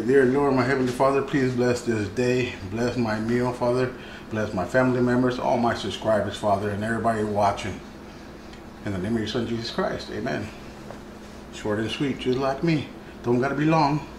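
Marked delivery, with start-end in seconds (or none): 0.1-10.5 prayer. Acted. Blesses the meal.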